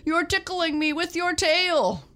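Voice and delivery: loud, high roar breaking into giggles; roaring through laughter. A narrator's reading. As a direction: protest while being tickled. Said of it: "he roared".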